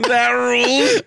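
high, laughing mimic; laughing imitation. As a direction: echo it through laughter.

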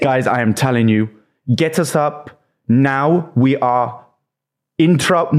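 slow, laughing imitation of a frightened David; half-laughing mock panic; mock panicked plea. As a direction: stretch "get us up now" like a scared man insisting. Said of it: "he went".

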